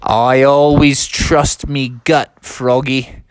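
slow, lightly put-on dad voice; confident dad. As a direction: draw it out with fatherly assurance. Dad's put-on confident drawl.

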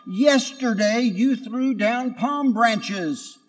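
high, slow reproach; reproachful. Acted. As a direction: remind them bitterly. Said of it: "he shouted".

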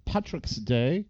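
a put-on Jamaican lilt; Jamaican accent. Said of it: "That was my Jamaican accent".

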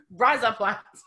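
amused Australian-sounding "Rise Up Lights"; fake Australian accent trick. Shown as a demonstration. American repeating her party trick, fake Australian accent. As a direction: do the Australian "razor blades" trick through laughter. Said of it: "sound like you're saying razor blades with an Australian accent".

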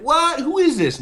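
high, loud yelling down the phone; loud shouted reply. Retold or imitated. Shoe Nice answering the first call, high shouting. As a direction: imitate a man shouting over noise. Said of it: "was entirely different, where he was like".

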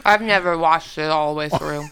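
talking through a mouthful of candy; mouth full. Real, not acted. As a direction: chew while you talk. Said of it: "Sorry, I'm eating nerds".

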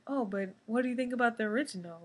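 quick, lightly voiced nosy fan; mock questioner. Host imitating someone quizzing her about originals, mock prying. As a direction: rattle off the fan's pushy question. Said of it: "someone asks you".

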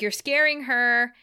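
slow, firm warning; protective Joyce. Retold or imitated. Mother warning Angel away from her daughter, slow and firm. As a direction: back him off slowly and firmly. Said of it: "Joyce is like".

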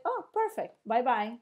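a sing-song pleased broker brushing him off; chirpy broker. Retold or imitated. Broker cheerfully taking his stock back, mock chirpy.

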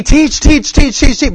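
high, loud, rapid-fire hammering of teach; mock relentless repetition. Shown as a demonstration. Preacher mocking teaching that never gets obeyed, exaggerated repetition. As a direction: rattle teach off over and over, high and punchy.

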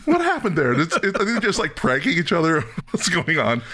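high, baffled disbelief with a laugh; mock bewildered viewer. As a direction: ask it half laughing, confused. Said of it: "I'm like".

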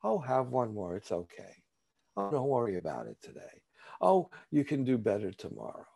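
lightly acted tempter in one's own voice; coaxing inner voice. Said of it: "my disease talks to me in my voice".

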